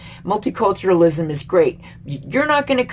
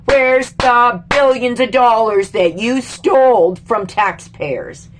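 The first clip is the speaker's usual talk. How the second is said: angry demand; 3 semitones higher, 5 dB louder, slower than usual. Real, not acted. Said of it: "Now I'm mad".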